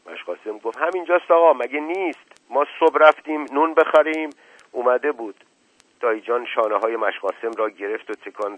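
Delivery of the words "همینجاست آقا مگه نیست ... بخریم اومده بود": high, loud servant's protest; puzzled servant. Acted. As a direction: raise the voice, baffled by the master's question.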